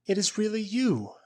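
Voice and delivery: high woman's voice, cried out with joy; woman's joyful cry. A narrator's reading. The woman greeting the Spaniard, high joyful cry. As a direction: voice her as a longing woman. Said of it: "it cried".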